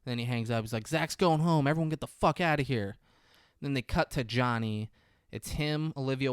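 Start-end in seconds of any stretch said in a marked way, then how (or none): 0.9-3.0 slightly raised, higher announcement; urgent announcement. Retold or imitated. Friend hangs up and tells everyone to leave, mildly urgent announcement. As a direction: imitate someone briskly clearing the room.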